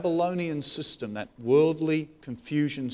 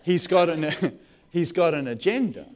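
laughing; 2 semitones higher, 5 dB louder than usual. Real, not acted. Laughing while telling.

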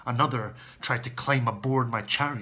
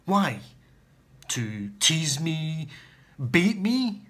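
from taut to much higher and louder cries; building anguished rage; 4 semitones higher, 5 dB louder, slower than usual. Acted. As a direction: rage at the sky, louder each time. Realising Achilles tricked him.

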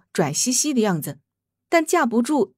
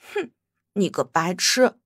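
impatient scoff; 3 semitones lower than usual. Acted. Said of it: "小娃娃不耐烦地说道".

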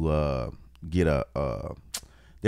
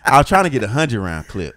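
laughing; 4 semitones higher, 7 dB louder than usual. Real, not acted. Repeats it while cracking up.

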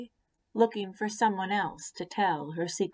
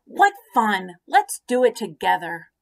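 happy pollywog; 8 dB louder than usual. Acted. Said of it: "the pollywog said happily".

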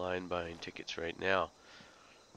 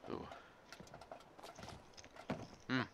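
crunching chips; 6 semitones higher, 12 dB quieter than usual. Real, not acted. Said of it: "now that you can hear me crunching".

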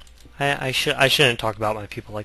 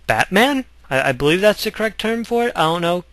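higher, hammed-up guess at a word; mock unsure; 7 semitones higher, 7 dB louder than usual. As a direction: play dumb, pitch it up like a question. Fake native speaker unsure of word.

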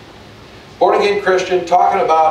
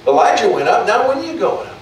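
higher sing-song taunt; mocking kids; 6 semitones higher than usual. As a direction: jeer at the bald prophet like a child. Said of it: "they were making fun of him".

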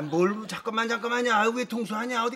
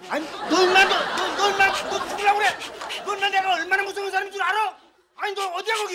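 higher, louder threats; angry threat; 5 semitones higher, 5 dB louder than usual. Acted. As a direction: make the caller afraid of you. Threatening the prank caller.

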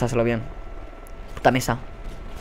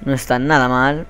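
normal talking voice

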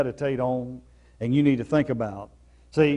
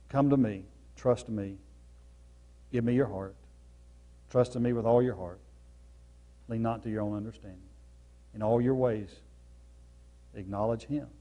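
gentle invitation; 3 semitones lower, 6 dB quieter than usual. Retold or imitated. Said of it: "When the Lord's saying".

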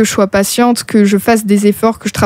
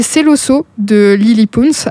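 light attempt at a Spanish accent; super Spanish accent; slower than usual. Real, not acted. Host announcing the next song to listeners, light Spanish accent. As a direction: say it with a slight, self-mocking Spanish accent. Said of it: "avec mon super accent espagnol".

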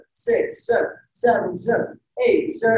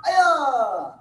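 long martial arts kiai yell; drawn-out "hi-ya" battle cry; loud yell; 3 semitones higher than usual. Real, not acted. Instructor leading the class in a loud kiai yell. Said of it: "Loud yell".

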